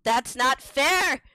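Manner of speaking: slow, stressed protest; rising protest. Real, not acted. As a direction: draw it out as a loud complaint. Protest builds to a cry.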